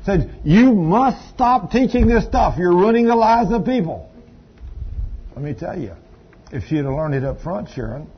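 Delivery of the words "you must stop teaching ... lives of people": retold stern demand. Retold angry demand from letter writer.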